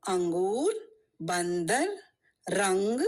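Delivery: nasal "an" in angur, bandar, rang; nasal n sound. Shown as a demonstration. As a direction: hum the n after the vowel in "angur, bandar, rang". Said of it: "a nasal sound".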